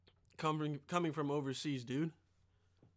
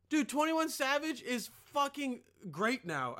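ordinary talk, nothing marked

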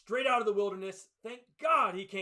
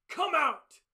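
loud, higher commanding shout; commanding call; 9 semitones higher, 9 dB louder than usual. Retold or imitated. Jesus calling dead Lazarus out of the tomb, loud command. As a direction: call him out of the grave with authority.

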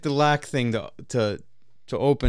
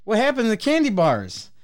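rising higher, bewildered questions; baffled outburst; 8 semitones higher than usual. Retold or imitated. Confronting Justin about the candy bars, higher and baffled. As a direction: demand to know what happened, confused. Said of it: "I'm like".

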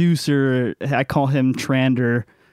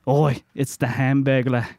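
lightly mocked Australian accent; bad Australian accent. Monster hunter spots a fast-food villain, bad Australian accent. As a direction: put on a poor Australian accent for a joke. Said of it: "don't do a really good Australian accent".

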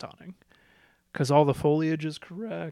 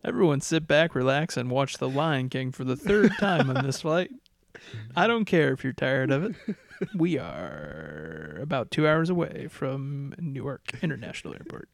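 airline pilot announcement. Pretend. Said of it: "Start talking like a pilot".

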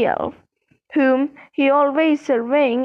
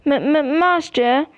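stammering. Acted. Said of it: "Winky stammered".

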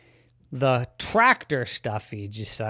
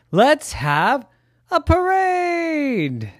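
high goose voice; 5 dB louder, much slower than usual. Acted. Ricardo proposes a parade.

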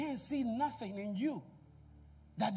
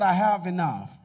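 shout; 2 semitones lower, 8 dB louder than usual. Shown as a demonstration. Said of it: "Somebody shout".

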